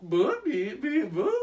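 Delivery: high beeping robot; toy robot voice. Pretend. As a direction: beep back like a toy robot. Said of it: "I was responding".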